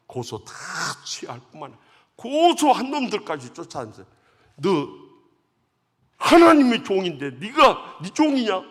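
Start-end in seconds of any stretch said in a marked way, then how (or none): 4.6-8.6 louder, slower scolding echo of the dream; mock rebuke. Deacon scolding the accusers with God's words, loud and slow. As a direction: hurl the rebuke back at the accusers. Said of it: "제가 들은 이야기 다 해줘버린 거예요".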